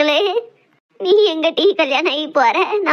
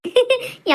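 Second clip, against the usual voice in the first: laugh; 8 semitones higher than usual. Real, not acted. Women laughing over food.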